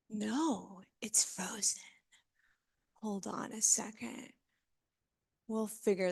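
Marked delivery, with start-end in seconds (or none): 0.1-4.3 whispered aside. Real, not acted. Fixing the slides, muttering aside.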